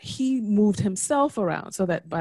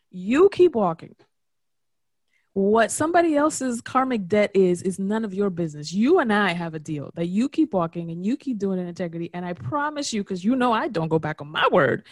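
voicing God. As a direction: speak as a calm divine voice promising. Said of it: "it would say".

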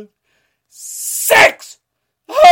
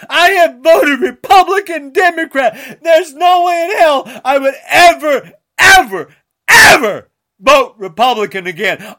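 crying, fast outburst; much faster than usual. Real, not acted. Sobbing rant all through.

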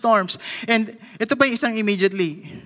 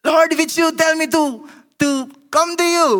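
higher, louder anxious asking; Peter's nervous plea; 8 semitones higher, 3 dB louder than usual. Acted. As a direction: plead nervously from a rocking boat. Peter pleads from the boat.

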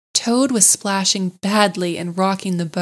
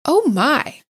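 high, gasped wonder; awed gasp; 6 semitones higher than usual. A narrator's reading. Mole to rat at the lovely river, awed gasp. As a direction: gasp it out, overcome by the beauty. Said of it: "paws and gasp".

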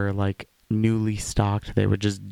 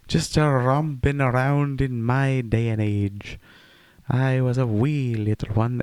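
put-on old-timer voice; 4 semitones higher than usual. Old-timey voice reminiscing.

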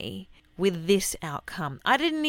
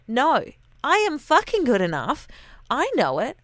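louder, punching every word; defiant declaration; 5 semitones higher, 4 dB louder than usual. Real, not acted. Telling the media bosses she is good enough, loud and defiant. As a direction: say it like you finally believe it.

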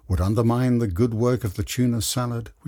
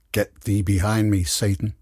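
joking. Acted. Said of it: "she joked".

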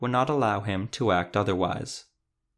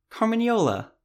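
high, delighted exclamation of his name; excited cry; 12 semitones higher, 3 dB louder than usual. A narrator's reading. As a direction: squeal his name with joy. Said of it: "Beatrix excitedly snatched the box".

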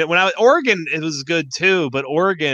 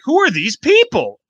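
small-town local voice; 9 semitones higher than usual. Retold or imitated. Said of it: "they're like".

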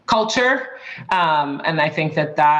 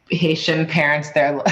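ordinary talk

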